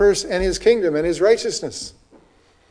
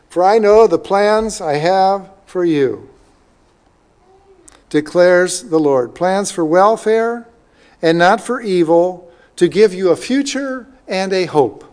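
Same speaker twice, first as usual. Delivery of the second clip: slow, measured reading of a verse; stately pulpit reading with pauses; scripture reading; slower than usual. Acted. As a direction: read it out deliberately, phrase by phrase. Reads verse aloud slowly.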